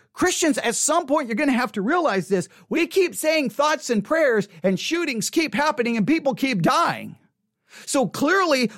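usual speaking voice

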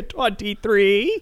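slow drawn-out number call; bingo caller. Pretend. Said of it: "calling bingo numbers".

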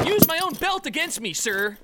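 high, keen recruit voice; eager old pledge. Acted. Old pledge answers frat leader.

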